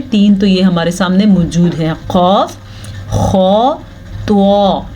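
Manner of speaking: खौ said full and heavy; heavy letters. Shown as a demonstration. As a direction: make खौ round and heavy. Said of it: "इनको मोटा पढ़ना है।".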